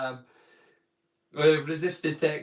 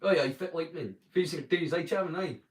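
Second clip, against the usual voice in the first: Doric demo. Shown as a demonstration. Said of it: "We speak Doric out here".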